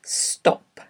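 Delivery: careful, isolated word for dictation; slow dictation. Shown as a demonstration. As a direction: say each word on its own, long pauses between. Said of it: "read ten words aloud slowly".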